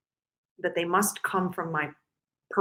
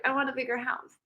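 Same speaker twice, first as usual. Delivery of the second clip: silly voice; 4 semitones higher, 5 dB quieter, faster than usual. Retold or imitated. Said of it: "I'm sorry I'm using that voice".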